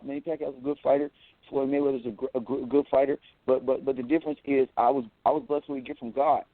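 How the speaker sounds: a light take on Floyd Mayweather, hardly changed; lightly voiced boxer boasting of his gift; Floyd Mayweather impression. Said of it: "this is my Floyd Mayweather impression".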